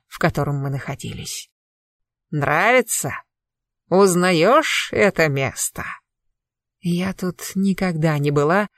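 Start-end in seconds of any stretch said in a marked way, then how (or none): 2.3-5.8 put-on crackling old man's voice. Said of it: "Трескучий старческий голос".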